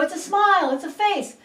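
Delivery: put-on encouraging guesses to a child; eager guessing. Shown as a demonstration. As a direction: cheer on a little kid. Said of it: "you go".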